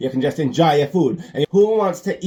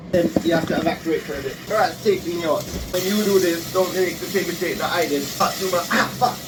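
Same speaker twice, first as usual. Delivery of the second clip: higher-pitched, flustered urgency; flustered by smoke; 4 semitones higher than usual. Real, not acted. Cook driven out by smoking oil, flustered. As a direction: talk through the smoke that's overwhelming you.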